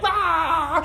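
breathless high laughing ah; helpless laughing sigh; laughing exclamation. Real, not acted. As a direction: laugh it out, almost crying. Reacting while laughing.

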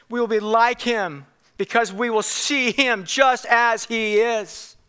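measured, emphatic Bible quotation; scripture recital. Acted. Preacher quoting the Apostle John to believers, proclaimed emphatically. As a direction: proclaim each phrase of the verse deliberately. Quotes John's epistle.

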